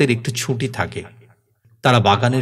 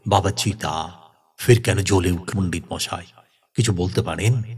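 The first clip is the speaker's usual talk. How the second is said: lower, subdued questioning; lightly voiced grave elder; grave troubled man; 4 semitones lower, 3 dB quieter than usual. Ghanaram asks the pandit about the relit pyre, grave and low. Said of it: "তার মুখ গম্ভীর".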